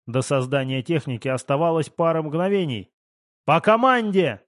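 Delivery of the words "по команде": higher, raised call; urgent high order; warning command. A narrator's reading. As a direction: insist on waiting for the signal. Repeats the warning in battle.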